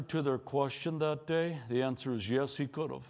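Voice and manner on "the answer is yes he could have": low, soft first answer; a hushed yes; quiet answer. Shown as a demonstration. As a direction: say it quietly, almost to yourself.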